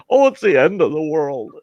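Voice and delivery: high, loud hammed-up despair; mock melodrama. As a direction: lampoon the crybabies. Mocking folks who can't handle heat.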